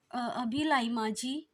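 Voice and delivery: slow, hesitant, deflated answer; a disappointed hint of reluctance; dejected reply. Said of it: "उतरे हुए मन से".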